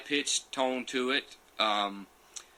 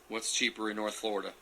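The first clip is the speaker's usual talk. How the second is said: softer question, musing to himself; quiet puzzled question; 7 dB quieter than usual. Real, not acted. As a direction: wonder it aloud under your breath. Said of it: "musing over viewer comment".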